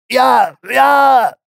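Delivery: high, creaky, stammering little dwarf. A narrator's reading. Dwarf Hopus stammers under the destroyer's stare, high and creaky. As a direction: stutter it out, terrified and creaking.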